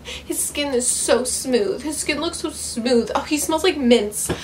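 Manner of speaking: lightly voiced breathless teen reader, swooning; mock swooning teen girl. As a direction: gush over him like a smitten teenager, lightly mocking. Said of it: "horny ass teenage girl writing".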